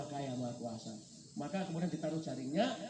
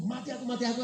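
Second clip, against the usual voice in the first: panicked cry; 6 semitones higher, 5 dB louder than usual. Acted. Fisherman panics as storm comes.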